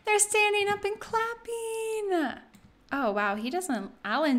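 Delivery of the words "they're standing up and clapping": high squealed cheer melting into a coo; thrilled high-pitched squeal; delighted cheering. Real, not acted. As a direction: cheer loudly, then gush, drawn out and high. Cheering the wedding kiss.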